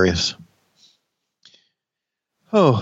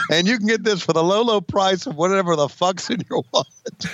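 shopping channel pitch; 4 semitones higher than usual. Pretend. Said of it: "they ought to do Q V C shows like that".

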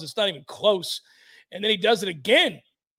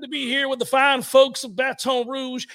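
mock Southern coach; 2 semitones higher than usual. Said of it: "give us the Brian Kelly Southern accent".

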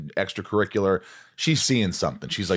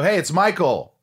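put-on eager young self; 8 semitones higher, 4 dB louder than usual. His younger self on phone.

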